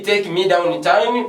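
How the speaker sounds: slow, careful model of the wrong phrase; slow wrong example. Shown as a demonstration. Teacher showing students the phrase not to say, slowly. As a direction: drag it out as the phrase to avoid. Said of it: "Don't say".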